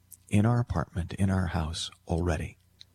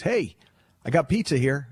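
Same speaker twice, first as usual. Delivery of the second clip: high, louder, chirpy delivery guy call; pizza guy at the door; 7 semitones higher, 4 dB louder than usual. Acted. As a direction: sing out like a cheery delivery man.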